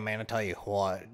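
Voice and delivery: put-on "I tell you what" in a country accent; southern accent. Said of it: "See, I'm decent at it".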